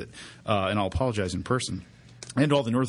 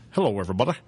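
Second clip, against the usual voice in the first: sports announcer voice; faster than usual. Retold or imitated. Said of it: "he used to start with".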